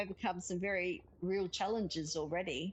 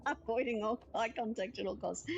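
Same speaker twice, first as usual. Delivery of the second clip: laughing; 2 semitones higher than usual. Real, not acted. Repeats joke laughing.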